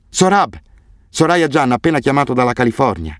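high, eager call through a door; excited and high. A narrator's reading. Calling through the bathroom door.

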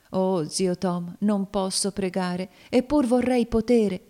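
slow lament, rising at the end; anguished confession. Acted. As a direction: confess despair to a trusted friend. Cassie confesses she cannot pray.

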